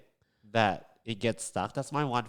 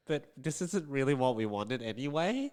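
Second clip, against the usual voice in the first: softer, mildly sheepish imitation; awkward; 3 semitones higher, 6 dB quieter than usual. Imagining her friend telling the jeweler, mildly awkward. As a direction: imitate a customer awkwardly backing down. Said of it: "the awkwardness of her trying to tell you and you being like".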